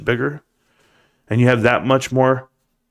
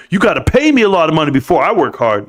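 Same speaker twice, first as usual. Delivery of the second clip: higher-pitched mock entitled worker; mock demand; 4 semitones higher, 3 dB louder than usual. Mock demand of a money-first worker.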